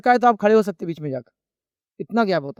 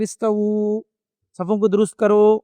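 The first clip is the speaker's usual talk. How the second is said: imam's announcement; slower than usual. Retold or imitated. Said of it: "اعلان کرتے".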